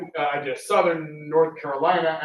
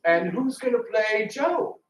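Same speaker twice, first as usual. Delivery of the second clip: higher, slower, put-on pleading voice; mock pleading question; 6 semitones higher, slower than usual. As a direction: ask it in a raised, drawn-out mock plea. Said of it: "And I ask him".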